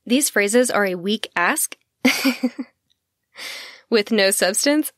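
words breaking into a real laugh; struggling not to crack up over the notes. Real, not acted. Host reading notes to listeners, giggling through it. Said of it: "Sorry, I'm laughing".

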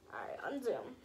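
whispered instruction; soft whispered aside. Real, not acted. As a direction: breathe it to the camera person.

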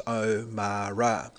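O, Ma, Ra said one by one; sounded out by syllable. Shown as a demonstration. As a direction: build the name syllable by syllable. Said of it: "piece it together as".

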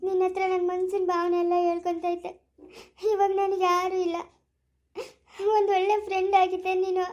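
crying while confiding in a friend; tearful farewell. Acted. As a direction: pour out the hurt through tears. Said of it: "ಅಳ್ಬೇಡ, ಸುಮ್ನಿರು". (ಅಳುತ್ತಾ ಹೇಳುವುದು)

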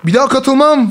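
mildly hammed-up indignant protest; retold outrage. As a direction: imitate a sore loser ranting, without shouting. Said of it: "adam çıldırıyor böyle".

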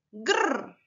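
grr as a low rolled growl; growled gr sound. Shown as a demonstration. Teacher shows how the letters sound together: growled. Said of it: "Juntas dicen".

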